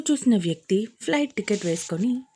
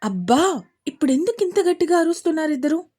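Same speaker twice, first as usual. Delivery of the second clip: stern; 6 semitones higher, 5 dB louder, faster than usual. Acted. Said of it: "సీరియస్గా చూస్తూ".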